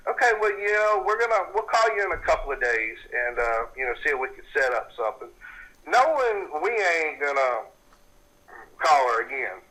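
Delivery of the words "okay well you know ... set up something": mock-courteous, pitched up then settling down; polite brush-off. Team to client they will never call back, falsely polite. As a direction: imitate a polite, noncommittal goodbye. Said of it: "we politely sitting there".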